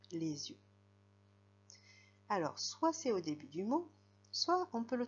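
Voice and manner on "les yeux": "les yeux" run together with a z sound; liaison. Shown as a demonstration. Teacher repeating the example for pupils, liaison in "les yeux". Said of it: "parce que je fais la liaison".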